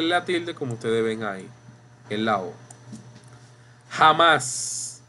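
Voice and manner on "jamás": jamás stressed on the last syllable, ja-MÁS; correct final stress. Shown as a demonstration. Teacher models the word for students, jamás stressed on MÁS. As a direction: land firmly on the MÁS of jamás. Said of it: "Decimos jamás".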